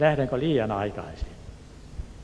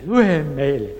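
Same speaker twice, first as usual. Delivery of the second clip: repeated call, louder; louder retold shout; 6 dB louder, slower than usual. Inmates insist he read to them, louder mock shout. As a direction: push the second call out louder. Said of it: "niin he huusivat".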